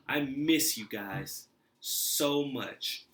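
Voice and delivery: big, slow, earnest declaration; heartfelt reunion. Acted. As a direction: draw it out emphatically, with affection. Reunion with mother, acted.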